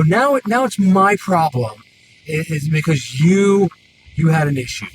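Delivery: insistent, irritated complaint; annoyed. Retold or imitated. Mechanic blaming customer for a rushed job, annoyed. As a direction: push the blame back, fed up. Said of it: "That's when I got annoyed".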